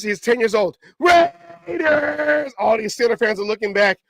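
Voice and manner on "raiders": high-pitched, drawn-out holler; imitated yelling. Boy yelling past Steelers fans, imitated shout. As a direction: stretch it out like a yelling kid. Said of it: "He's yelling".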